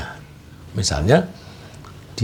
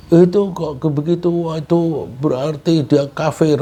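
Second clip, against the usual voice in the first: harsh scolding; 6 semitones higher than usual. Shown as a demonstration. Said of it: "itu, itu kasar".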